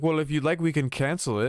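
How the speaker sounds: mock the cheerful offer; lightly mimicked agent; helpful agent.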